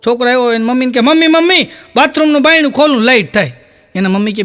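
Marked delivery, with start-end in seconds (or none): 1.0-3.5 höher, kindlich bettelnd, leicht gespielt; small child voice. Retold or imitated. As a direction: play a little boy tugging at mum. Small boy calls his mother.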